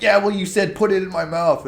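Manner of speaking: high teasing put-on voice; mocking comeback. Friend joking on the guy who said he wasn't scared, mocking. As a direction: imitate a jeering retort. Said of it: "we all joked on him".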